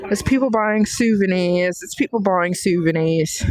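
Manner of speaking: lightly put-on British accent; attempted British accent. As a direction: have a go at a British accent, dropping the r. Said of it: "I love the Scottish accent".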